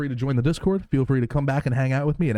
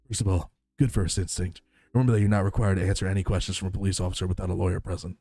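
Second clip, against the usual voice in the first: reading game lines; 4 semitones lower, faster than usual. Acted. Game dialogue read aloud.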